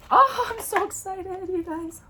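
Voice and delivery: high-pitched excited squeal; real excitement. Real, not acted. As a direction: let the excitement lift your voice way up.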